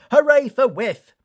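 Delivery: high breathy cheer; Thomas cheering. A narrator's reading. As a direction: cheer for Whiff. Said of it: "puffed Thomas".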